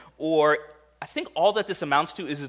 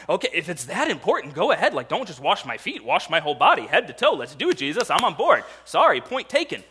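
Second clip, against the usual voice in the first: louder, bouncing eager pitch; exuberant Peter; 2 semitones higher, 3 dB louder than usual. Retold or imitated. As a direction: gush with overeager joy. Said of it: "he says it in verse nine".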